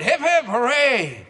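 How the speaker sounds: high, loud, slow "hip, hip, hooray"; cheerful cheer. Acted. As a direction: cheer it out like a happy crowd. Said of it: "make you shout".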